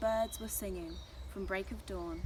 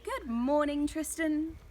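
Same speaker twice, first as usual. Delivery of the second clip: loud, high, cheerful greeting; chirpy storybook greeting; cheery; 7 semitones higher, 8 dB louder than usual. A narrator's reading. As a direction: sing out a happy morning hello. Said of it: "Audrey said cheerily".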